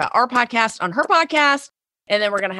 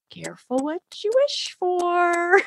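laughing; 11 semitones higher than usual. Retold or imitated. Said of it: "He goes".

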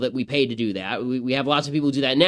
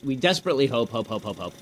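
fading out softer and lower on each repeat; mock desperate hoping; 3 semitones lower, 4 dB quieter than usual. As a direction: let the hope dribble away like an echo. Mocking the politician's hope, fading.

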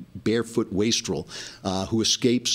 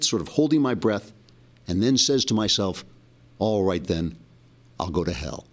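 put-on understated dramatic reading as a rustic kid; Huckleberry Finn accent; 2 semitones higher than usual. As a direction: read the story with measured pauses and a hint of folksy dialect. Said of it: "written in Huckleberry Finn's accent".

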